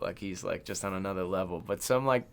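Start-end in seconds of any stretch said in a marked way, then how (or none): none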